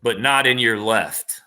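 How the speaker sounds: slow, drawn-out riddle delivery; theatrical riddler. Pretend. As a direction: pose the riddle slowly, with a showman's pauses.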